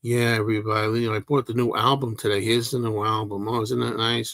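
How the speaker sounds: a flat, unexcited greeting to viewers; deliberately dull, as if nothing matters; mock deadpan video host; low-key, no energy. Shown as a demonstration. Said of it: "you could talk like this".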